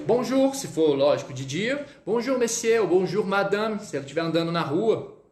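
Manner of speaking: polite French bonjour, monsieur; French greeting demo. Shown as a demonstration. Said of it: "É assim, ó".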